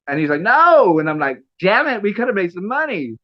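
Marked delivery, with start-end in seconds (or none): 0.4-1.0 high, loud retold "no" of protest; emphatic denial. Acted retelling of shocked denial. 1.6-3.2 high-pitched comic lament; mock disappointment. Acted mock disappointment in retelling.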